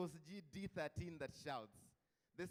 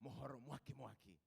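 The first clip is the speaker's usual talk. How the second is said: radio jingle imitation; 6 dB quieter than usual. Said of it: "there'd be a signature tune to say".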